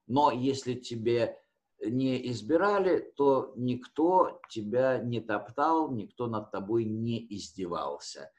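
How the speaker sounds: ordinary delivery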